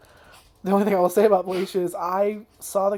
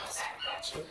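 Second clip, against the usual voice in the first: whispered curse; 13 dB quieter than usual. Real, not acted. Muttered curse after a rant.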